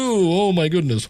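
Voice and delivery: lightly flustered host; mock dismay. Host overwhelmed by the off-script moment, mock dismay. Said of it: "the host guy was kinda like".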